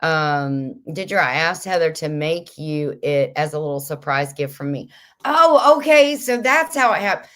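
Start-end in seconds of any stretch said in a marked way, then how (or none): 5.2-7.3 high, loud "oh, okay" of sudden understanding; light up as the penny drops, then settle; surprised realization. Real, not acted. Host discovers who sent the apron, real surprise. Learning the apron was a gift.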